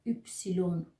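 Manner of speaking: یپسیلون said in full as "üpsilon"; rounded ü opening on یپسیلون; German letter name. Shown as a demonstration. Teacher naming German Y, یپسیلون as full "üpsilon".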